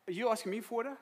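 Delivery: high, loud incredulous question; sarky disbelief. Acted. Samaritan woman answering Jesus's request for water, sarky. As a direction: question him with cheeky disbelief. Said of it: "now she's Saki".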